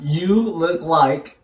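slow, word by word; measured so a lip-reader can follow; slow delivery. Real, not acted. Friend feeds phrase to guesser in whisper challenge, slowly.

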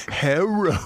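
hammed-up put-on Chinese accent; mock Chinese accent. Comic sketching an accent gag, mock Chinese accent. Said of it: "Ching Chong Ding Dong".

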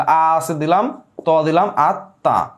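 "আত্মা" slowly built up, with a held double t; doubled consonant. Shown as a demonstration. Teacher building a word for students, slow and doubled. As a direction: sound out "আ", "ত", then "আত্মা" with doubled t. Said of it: "double হবে".

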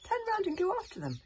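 high, loud desperate calling; frantic pleading shout; shouting after them. Acted. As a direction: call across the water to the fleeing boats.

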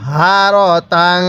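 তাং slowly, the ং ringing through the nose; drawn-out তাং with a nasal hum; nasal tanwin. Shown as a demonstration. Teacher showing students the ghunnah on tanwin. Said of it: "এখানে তানবিনটা আমরা গুনাহ করেই পড়ব".

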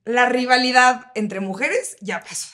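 put-on valley girl. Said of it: "habla muy fresa".

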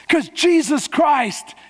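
slow shout. Real, not acted. Preacher shouts climax.

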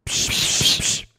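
low, soft radio voice; like crackling through a walkie-talkie; over walkie talkie. Pretend. Answering over pretend radio. (низко и тихо, как по рации)

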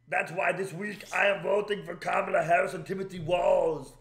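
loud mocking Austrian accent; Arnold Schwarzenegger impression. Mocking Arnold's endorsement for viewers, loud Austrian accent. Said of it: "he wrote in social media post".

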